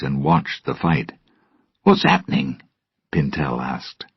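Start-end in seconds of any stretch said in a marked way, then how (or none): 1.8-2.6 puzzled pirate. Acted. Pintel asks Ragetti.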